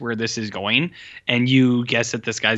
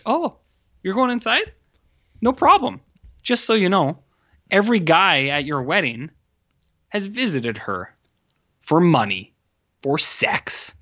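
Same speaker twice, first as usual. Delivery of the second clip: high, sing-song catty wife voice; a high mock-sweet wife, dropping to a hiss on "for sex"; mock wife taunt; 6 semitones higher than usual. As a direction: needle him in a sweet high voice. Voicing the wife's taunt.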